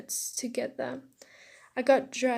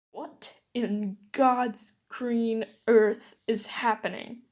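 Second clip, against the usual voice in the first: slow, emphatic outraged demand; mock scream; 4 dB louder, slower than usual. Teacher walking in on the fight, screaming. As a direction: draw out each word in mild outrage. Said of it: "Mister Aizawa screamed".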